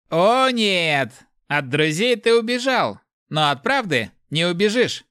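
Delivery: high, loud gloating refusal; merciless. A narrator's reading. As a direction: press on without pity. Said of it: "безжалостно продолжил Мэфис".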